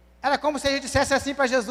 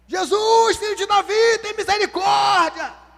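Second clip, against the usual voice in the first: acted, loud, high, stretched-out shout; 7 semitones higher, 5 dB louder than usual. Retelling the blind man shouting loudly so jesus hears: acting out a loud shout. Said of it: "vou gritar alto".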